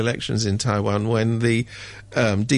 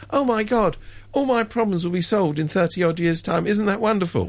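mock delight; 6 semitones higher than usual. Mocking cupboard dwellers' false hope.

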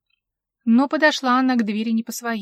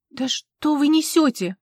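higher, slow indignant retort; angry retort; 6 semitones higher, 4 dB louder than usual. A narrator's reading. Leru snapping back at the intruding officer, angry. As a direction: bite back, offended. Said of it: "рассердилась Леру".

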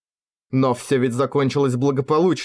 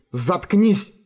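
higher, sharp hissed order; 6 semitones higher than usual. A narrator's reading. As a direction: cut him off with a hiss. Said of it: "прошипела женщина". (прошипела, резко)

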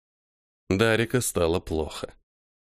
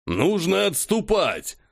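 urgent shout; 7 semitones higher, slower than usual. Acted. Council debate, urgent shout.

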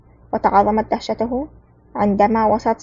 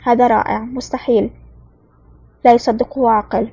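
a touch of disbelief, lightly voiced; stunned exclamation. Alexei marvels at the pilot's maneuver, mildly astonished. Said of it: "صاح فيها أليكسي بذهول".

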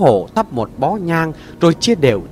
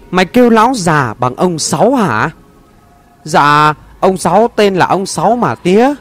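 angry father; 3 semitones higher than usual. Acted. Father interrogates son angrily.

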